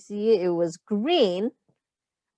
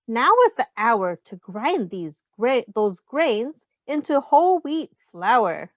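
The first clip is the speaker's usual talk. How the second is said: put-on reading to children. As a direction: read the rhyme aloud to the class. Reads picture book to children.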